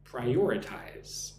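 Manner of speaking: "Prioritize" drawn out slowly, second syllable stressed; nice and slow. Shown as a demonstration. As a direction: model "Prioritize" at half speed for repeating. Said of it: "nice and slow".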